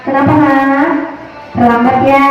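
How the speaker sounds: gentle, friendly teacher tone; caring teacher voice. Shown as a demonstration. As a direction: ask kindly, without blame. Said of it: "intonasi pun lebih bersahabat".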